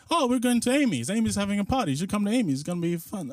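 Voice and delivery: high excited friend voice. Retold or imitated. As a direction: sell the party brightly. Friend invites to party.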